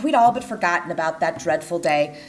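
usual speaking voice

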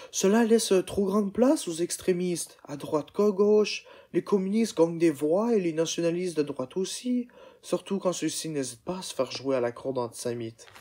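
put-on a young German woman warning; serious and concerned; lightly voiced young woman. Sarah explains German politics.

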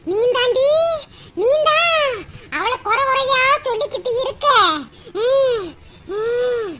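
the goddess calling out the mother-in-law; a hint of an angry deity; scolding goddess.

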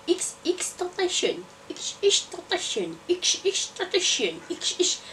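each word stretched slowly, a touch of mock solemnity; slow drawn-out reading. Vlogger reading a trending video title aloud, slow and drawn out. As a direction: drag the title out like a slow chant.

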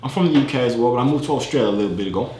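put-on casual British chat accent. Telling a stranger he's from the UK, put-on British accent. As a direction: pass yourself off as British. Poses as a Brit online.

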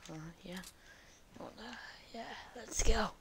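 unvoiced whisper, barely there. Real, not acted. Sneaking past enemies, whispering to himself. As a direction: breathe it so no one hears.

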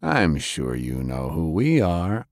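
slow, lightly drawled tough guy; a hint of a lazy drawl, unhurried; unhurried tough-guy drawl, lightly voiced; rough drawl. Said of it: "with his rough drawl".

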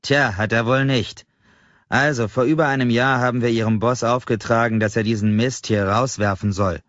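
scornful lecture. Acted. Customer lectures clerk scornfully.

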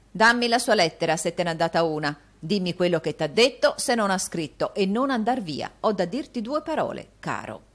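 ordini più forti e incalzanti; comando brusco. Acted. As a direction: esige la lettera senza pazienza. Rodolfo ordina al servo. (Rodolfo ordina a Newman, brusco e forte)

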